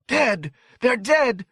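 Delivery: put-on very high, triumphant child's cry; hysterical triumph. A narrator's reading. Boy sees burned hedge creatures, hysterically triumphant. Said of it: "Danny screamed in hysterical triumph".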